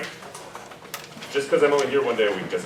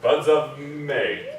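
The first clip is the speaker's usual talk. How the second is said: slow, with "May" doubled; doubling on May; 2 semitones higher, much slower than usual. Shown as a demonstration. Teacher showing doubling placed on May. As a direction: stretch the word "May". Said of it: "We could also do it on May".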